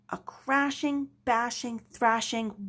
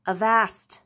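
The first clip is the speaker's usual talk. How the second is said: louder gruff bark; pirate cry; 5 dB louder than usual. Acted. Blackear stops the crew with a louder cry. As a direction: bark it like a captain. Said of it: "cried Blackear".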